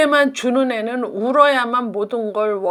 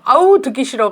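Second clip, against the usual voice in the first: higher, louder burst of annoyance; exasperated mother; 4 semitones higher, 5 dB louder than usual. Retold or imitated. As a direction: act out a parent who can't stand it. Mother fed up with whining. (짜증 난 엄마 흉내)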